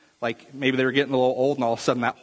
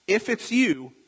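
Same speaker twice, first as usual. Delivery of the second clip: higher, doubtful "if"; acted uncertainty; 7 semitones higher, 4 dB louder than usual. Preacher voicing Peter unsure it is Jesus, doubtful. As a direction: put doubt into it, voice lifted. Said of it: "See, he's still not sure".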